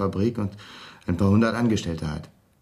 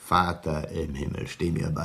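aghast plea; 4 semitones lower, 4 dB quieter, slower than usual. Acted. Shocked by embezzled fortune.

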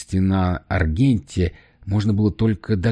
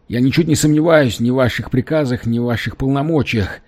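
trembling rushed voice; 4 semitones higher than usual. Acted. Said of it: "дрожащим голосом затараторил Экинс".

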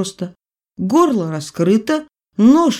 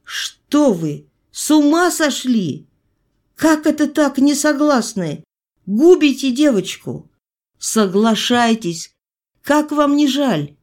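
higher, pressing, a bit slow; doctor presses the mother to agree, higher and urgent; urgent persuasion; 7 semitones higher than usual. A narrator's reading. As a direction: urge them as if another voice speaks through you. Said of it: "чужим голосом вымолвил".

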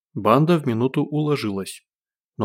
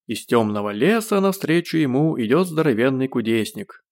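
declaiming; 3 semitones higher than usual. A narrator's reading. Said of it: "продекламировал Гош".

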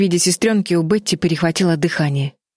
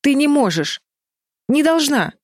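high, strained protest; a touch of desperate pleading; forced out in fear; 10 semitones higher than usual. A narrator's reading. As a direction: choke out the objection. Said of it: "выдавила Флис".

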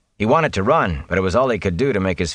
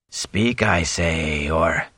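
slow cold demand from something inhuman; cold monstrous voice; 3 semitones lower, much slower than usual. A narrator's reading. The Fade interrogating Rand about his friends, icy and low.

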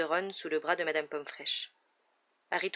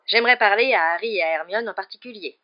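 louder, abrupt request; brusque; 3 semitones higher, 9 dB louder than usual. A narrator's reading. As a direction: cut in firmly. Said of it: "d'un ton brusque". (ton brusque)

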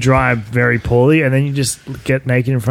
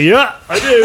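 lightly mocking, higher-pitched quote; imitating friend; 9 semitones higher, slower than usual. Teasing a friend about his answer, high mock imitation. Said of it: "He's like".

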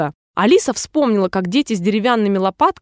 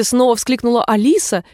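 plain reading voice

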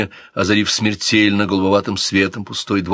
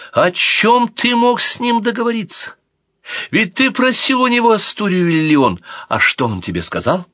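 much higher, scornful angry cry; angry shout; 13 semitones higher, 3 dB louder than usual. Acted. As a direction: attack him with the question. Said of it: "зло закричала принцесса Марион".

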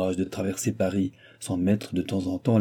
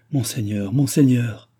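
second cry louder than the first; distressed appeal; 2 semitones higher, 4 dB louder than usual. Acted. Old lady appealing to the chancellor about her lawsuit, distressed. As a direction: plead in mounting dismay.

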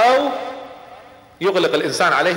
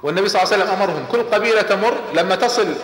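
ordinary delivery

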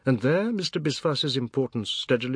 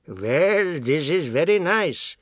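raised, sneering father voice; sarcastic father; 5 semitones higher, 5 dB louder, slower than usual. A narrator's reading. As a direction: needle them with mock praise. Father arrives, voiced by reader.

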